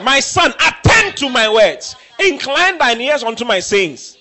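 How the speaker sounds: slow proud proclamation. Acted. Preacher reads proverb with force.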